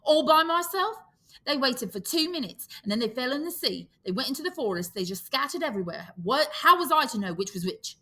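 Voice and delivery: put-on high, whining boy's protest; Piggy complaining. Piggy defending himself to Ralph, high and aggrieved. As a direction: plead the injustice. Piggy pleads his case.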